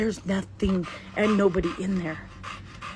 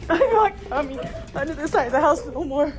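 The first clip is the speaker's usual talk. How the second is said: high-pitched, frightened protest; real spooked refusal, voice raised high; panicked shout; 7 semitones higher, 4 dB louder than usual. Real, not acted. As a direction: yell it while fleeing in fright. Fleeing after the fright.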